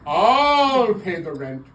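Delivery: slow, grand hero declaration; heroic rescuer. Pretend. Melodrama hero bit.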